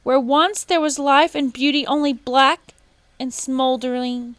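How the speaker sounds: very high, loud squawk; a bird's shrill cry; squawking toucan. A narrator's reading. Toucan squawking at the woodcutter, very high and loud. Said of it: "squawked the toucan".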